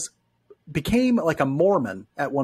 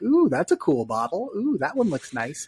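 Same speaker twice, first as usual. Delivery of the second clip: liquor store browser; 2 semitones higher than usual. Retold or imitated. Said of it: "go through the liquor store".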